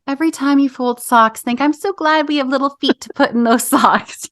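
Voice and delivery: gently mocking a cheesy tip; glib cheerfulness. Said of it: "glib to just be like".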